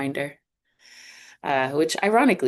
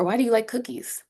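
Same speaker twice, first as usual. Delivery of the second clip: "Why do you like cookies?" said high, easing off after "do"; high wh-question, stress on "do"; intonation dropping off; 7 semitones higher than usual. Shown as a demonstration. Teacher repeating the example for students, intonation meant to drop. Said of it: "that intonation kinda drop off".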